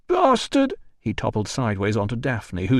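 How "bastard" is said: high loud yelled curse; drunk shout. Acted. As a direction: yell it as he topples. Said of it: "another shout of".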